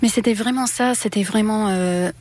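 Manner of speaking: French spoken with an English accent; non-native French accent; foreign accent in french. Real, not acted. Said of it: "mon français est comme ci".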